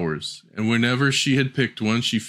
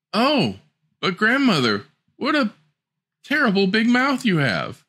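put-on alarmed little girl; 11 semitones higher than usual.

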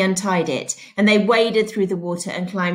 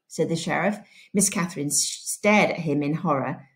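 steady classroom read-aloud narration; teacher reading a novel to pupils; story read aloud. A narrator's reading. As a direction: read the chapter to the class clearly. Teacher reads Holes aloud.

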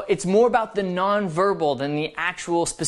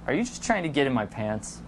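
low, soft playful accusation; hushed mock suspicion, pitched low; teasing accusation; 4 semitones lower, 6 dB quieter, faster than usual. Shown as a demonstration. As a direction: accuse teasingly under your voice.

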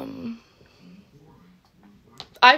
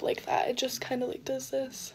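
whispering; 13 dB quieter than usual. Real, not acted. Quiet aside while curling.

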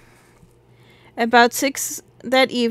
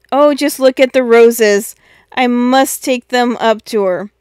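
excited; 6 dB louder than usual. Acted. Bobby excited about roses.

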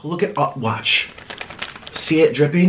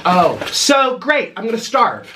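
sarcastic. Acted. Mock complaint, very slow.

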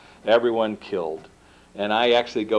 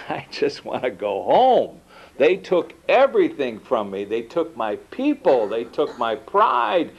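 fiery preacher; 5 semitones higher than usual. Retold or imitated. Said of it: "like a fiery preacher".

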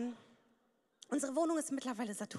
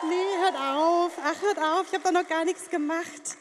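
loud protest; 6 dB louder, slower than usual. Real, not acted. Stand-up opening, audience cheering.

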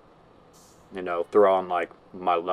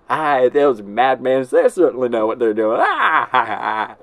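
impersonating Dylan; 3 semitones higher, 5 dB louder, slower than usual. Retold or imitated. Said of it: "we're gonna pull a Dylan".

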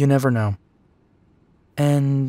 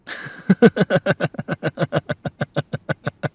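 laughing; 5 semitones higher than usual. Acted. Man laughing at his bratty partner, amused laughter. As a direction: burst out laughing and let it run on.

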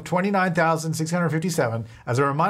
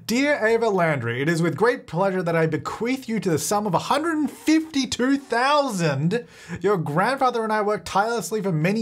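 grandma voice; 5 semitones higher than usual. Acted. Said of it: "I'm not gonna do the voice for all of this".

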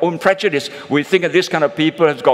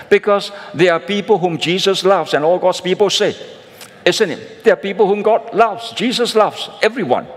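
fervent preaching; 5 semitones higher than usual. Real, not acted. Preacher rising to fervent point.

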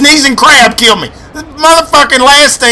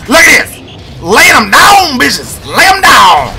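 higher, shouted hype over kills; gleeful shouting; 4 semitones higher, slower than usual. Real, not acted. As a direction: cheer the kills like a fan.

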